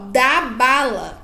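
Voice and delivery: "dá bala" loud, each word clearly separated; deliberate, stretched "dá bala"; two-word phrase demo. Shown as a demonstration. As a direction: model "dá bala" for a child to repeat. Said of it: "frases de duas palavras".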